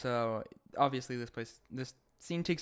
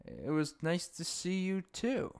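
wry reply; 5 semitones higher, 3 dB quieter than usual. Retold or imitated. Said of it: "Tom's like".

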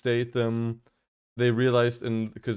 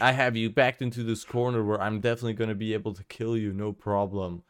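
sneering panto villain; faster than usual. Retold or imitated. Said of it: "where the villain's like".

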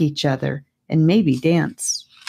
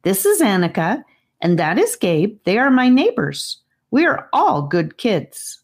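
put-on eager boy; 5 semitones higher than usual. Charlie introduces.

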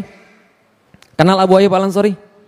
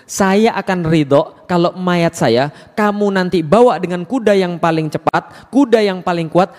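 dying man's request; slower than usual. Acted. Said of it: "beliau berpesan".

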